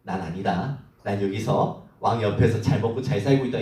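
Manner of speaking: low, soft self-satisfied chuckle; mock smug inner voice, laughing; smug gloating. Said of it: "어떤 마음이 들겠어요".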